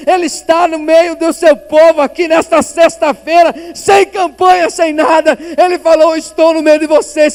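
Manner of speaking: shouted sermon climax; shouting. Real, not acted. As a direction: cry it out over the whole church. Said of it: "me faz até gritar um pouco aqui".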